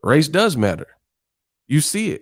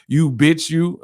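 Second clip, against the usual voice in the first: mocking chat troll; 4 semitones higher, much slower than usual. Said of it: "They like".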